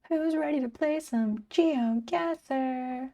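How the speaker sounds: a hint of a game show host, slow and quiet; host intro, very held back; subdued game show host. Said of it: "game show host voice, but, like, ultra subdued".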